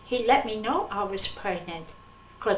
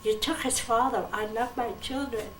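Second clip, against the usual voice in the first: mildly imploring the Lord to spare her son; gently retold plea to the Lord; retold begging; 3 semitones higher than usual. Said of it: "And I begged".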